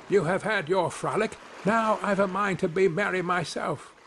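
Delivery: high little man's voice; lightly voiced defiant little fellow; cheeky little Tom. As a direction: answer back lightly, pitched high. Voices Tom answering the wolf.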